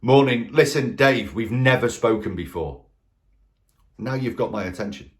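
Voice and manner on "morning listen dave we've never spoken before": bold businesslike opener. Shown as a demonstration. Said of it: "interrupt that pattern".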